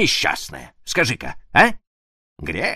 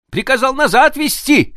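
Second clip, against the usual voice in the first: high, louder excited shout; 8 dB louder than usual. Acted. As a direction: call it out in triumph. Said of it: "закричал он".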